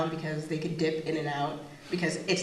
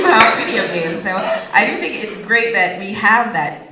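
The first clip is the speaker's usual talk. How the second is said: ordinary talk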